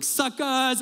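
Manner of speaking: a high teasing jab; mock gloating taunt. Pastor mocking the waiting line, light taunt. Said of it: "I look back at the desk and I was like".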